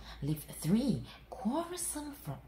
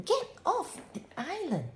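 high, loud shout; 13 semitones higher, 5 dB louder than usual. A narrator's reading. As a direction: bark it at them. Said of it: "shouted Rupert".

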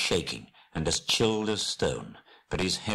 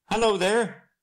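high, loud hail in a shaky voice; shaky call; 7 dB louder than usual. Acted. Bilbo hailing a man climbing towards him, shaky high call. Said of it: "he called with a shaky voice".

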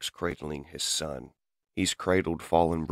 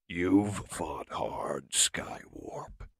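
whisper; much slower than usual. Acted. Towering over the beaten foe.

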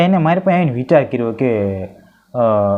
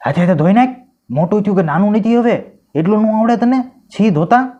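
higher, sharp telling-off; scolding mother; 6 semitones higher than usual. Acted. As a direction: scold the little boy.

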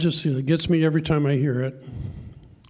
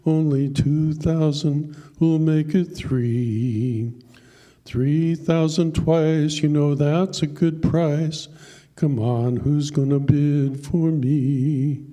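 auctioneer calling; slower than usual. Acted. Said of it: "Then he cried out".

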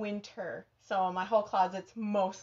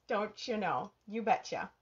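lightly hammed-up Minnesota accent; 3 semitones lower, 4 dB quieter than usual. Host answers praise of her accent, playful Minnesota accent. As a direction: play up a little Minnesota folksiness. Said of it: "your Minnesota accent is the best".

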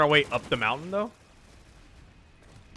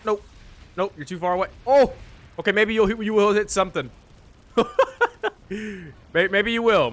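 sarcastic; 8 semitones higher, 7 dB louder than usual. Pretend. Mocking teammate's shooting.

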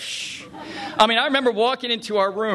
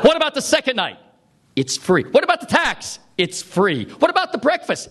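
higher, rising disbelief with each question; eager questions; 6 semitones higher than usual. Retold or imitated. Guest quizzing the desk clerk, higher and more amazed. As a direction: keep pushing, amazed.

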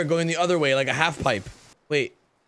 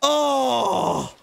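high startled yelps; shrieking at the crash; sledding downhill; 10 semitones higher, much slower than usual. Real, not acted. Cart crashes mid-ride.

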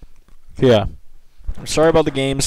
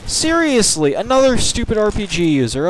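high-pitched exasperated cry; real gamer rage, pitched way up; angry outburst; 9 semitones higher than usual. Real, not acted. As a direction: cry out in real frustration at the game. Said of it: "I'm getting angry".

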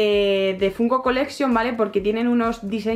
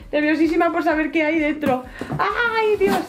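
nervous excitement; 6 semitones higher than usual. Real, not acted. Opening the big box.

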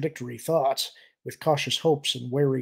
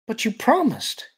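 put-on high-pitched young alien objection; pleading protest; 8 semitones higher, 4 dB louder than usual. Alien stares up at Mara, pleading protest. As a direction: protest up high, leaning on "promised".

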